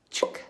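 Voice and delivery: percussive mouth chuk; clicky muted chuk sound; ghost note chuk. Shown as a demonstration. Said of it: "that's my, uh, ghost note".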